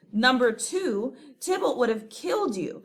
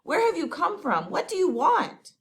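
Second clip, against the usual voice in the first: high, hurried and alarmed; flustered friar torn between door and Romeo; frantic whispers and calls to the door; panicked urgency; 6 semitones higher, 3 dB louder than usual. Acted.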